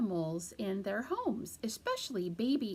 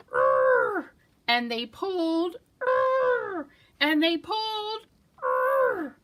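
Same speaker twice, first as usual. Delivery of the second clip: loud effortful grunts; grunting louder with each pull; straining grunts; 8 semitones higher, 6 dB louder, slower than usual. Acted. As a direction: heave with everything. Group pulling the carrot.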